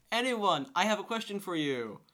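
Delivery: lightly voicing the actress as she offers the cookies, in an Israeli accent. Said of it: "I love the accent he did for Gal Gadot".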